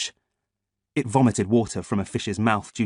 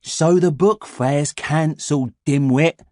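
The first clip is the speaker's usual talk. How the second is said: scornful; 4 semitones higher, 3 dB louder, slower than usual. A narrator's reading. Boy mocks his friend.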